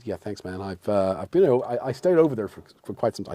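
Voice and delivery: lightly imitated American accent; reply in a casual fake American accent. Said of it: "I started talking in an American accent".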